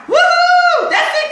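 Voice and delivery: excited whoop. Real, not acted. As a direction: whoop with real joy. I have more Bitcoin.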